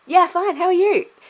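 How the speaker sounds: very high, very loud put-on cheerful voice. Recalling answering someone asking how they are, in a put-on happy voice. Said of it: "my voice would go up and, like, be that happy voice".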